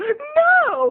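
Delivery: very high, stretched-out "no" sounding shocked. Mocking the acting in a scene, the speaker imitates Rose's overacted shock. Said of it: "totally overacting her shock".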